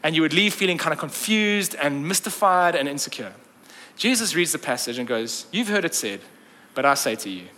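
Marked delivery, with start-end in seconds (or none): 5.5-7.5 low, assured rabbi's pronouncement; quiet authority. Retold or imitated. Jesus teaching the synagogue, speaking with quiet authority. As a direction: lay it down with calm authority. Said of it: "there is just power and authority".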